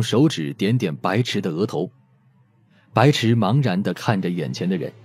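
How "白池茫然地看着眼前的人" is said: normal talking voice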